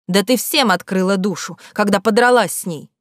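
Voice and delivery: loud, angry comeback; quarrel retort. Acted. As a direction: hit back at her. Svetka snaps back in quarrel.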